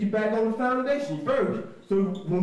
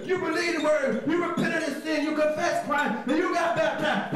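preaching; 3 semitones higher than usual. Acted. Preacher recapping the steps to the Bible class, raised voice.

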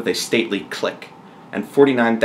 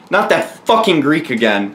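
higher-pitched, mildly exasperated cry; exclaimed cry; 5 semitones higher, 3 dB louder than usual. Acted. Daniel hearing about the princess, crying out. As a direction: cry out in protest. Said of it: "cried Daniel".

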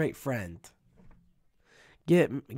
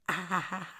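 fake laugh; 2 semitones higher, 5 dB quieter than usual. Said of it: "oh wait, I gotta like".

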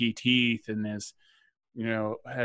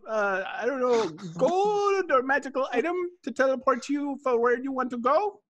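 beholder voice; 13 semitones higher than usual. Acted.

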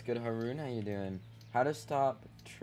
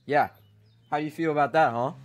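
loud, higher taunt; 5 semitones higher, 12 dB louder than usual. Real, not acted. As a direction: rub it in their face. Taunting another player.

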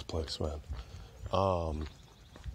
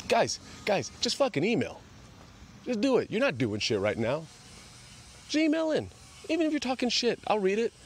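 pleading; 13 semitones higher than usual. Real, not acted. Begging listeners to email.

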